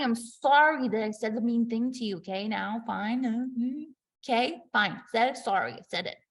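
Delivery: sulky forced apology. Pretend. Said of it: "The power play is".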